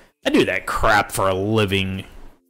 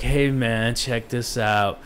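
surfer voice; slower than usual. Pretend. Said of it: "a chill surfer's voice".

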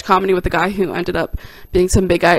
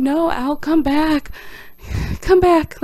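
building plea from high to much higher; desperate calling out; 8 semitones higher, slower than usual. Retold or imitated. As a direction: call him back, more desperate each time. Calling after Al as he leaves.

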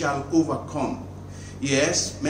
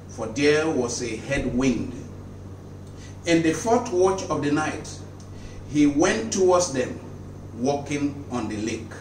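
measured, deliberate Bible reading; solemn reading of scripture. Acted. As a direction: read the Gospel aloud to the faithful. Reads Matthew aloud in sermon.

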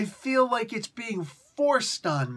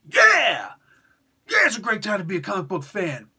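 excited fan; 7 dB louder than usual. Retold or imitated. Retold excited fan reaction.

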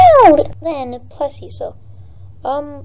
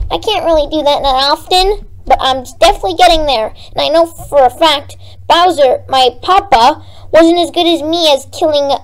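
boastful little Koopa prince; Bowser Junior voice; 3 semitones higher, 3 dB louder than usual. Acted. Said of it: "Bow Bow Junior".

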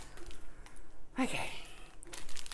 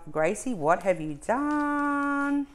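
higher, slow disbelief; mock viewer voice; 7 semitones higher, slower than usual. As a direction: play a baffled viewer. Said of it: "you're thinking to yourself".

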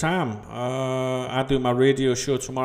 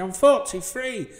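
inner thought; 8 semitones higher than usual. Retold or imitated. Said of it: "I'm thinking".

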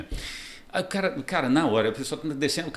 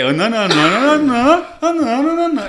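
higher and louder whiny não não; a grumbling mimic, pitched way up; imitando o Lélio; 11 semitones higher, 6 dB louder than usual. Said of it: "esse já é o negócio". (Lélio reclamão, bem agudo)

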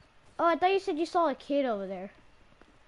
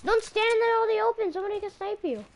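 higher-pitched urgent call; urgent warning; 6 semitones higher than usual. Real, not acted. Warning a teammate about snipers, urgent. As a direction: warn them off in a rising, urgent voice.

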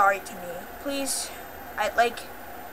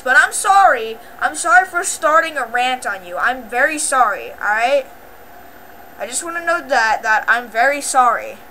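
raised, louder insistent apology; emphatic apology; 4 dB louder than usual. Real, not acted. Apologizing to another creator for starting a rant, emphatic. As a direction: press each sorry harder, pitched up.

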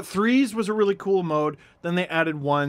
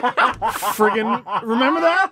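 laughing; 3 semitones higher, slower than usual. Real, not acted. Laughing while recalling glitch.

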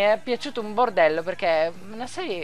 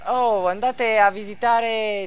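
mock shoutout. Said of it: "Questo è il modo di sponsorizzare".

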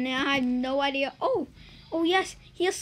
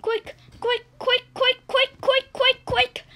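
higher, louder, building quick quick; frantic urging; 10 semitones higher, 6 dB louder than usual. Real, not acted. Gamer rushing the escape, frantic urging. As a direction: rattle it off faster and louder.

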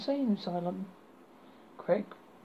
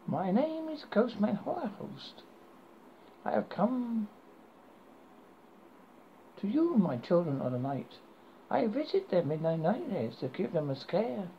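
horror host. Acted. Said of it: "speak in a creepy British accent".

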